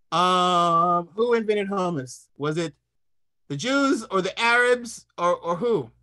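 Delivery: lightly voiced Tevye, musing; a hint of a Fiddler-style ponder; chocolate Tevye. Comic playing Tevye to the chefs, lightly musing. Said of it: "doing my best chocolate Tevye".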